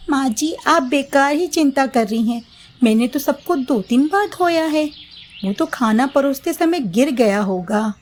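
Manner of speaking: put-on high young daughter-in-law promising obedience. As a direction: sound eager to please mother-in-law. Mamta makes excuses.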